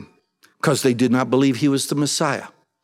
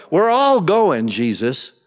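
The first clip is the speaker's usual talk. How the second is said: mocking brothers; slower than usual. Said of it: "and they're mocking him".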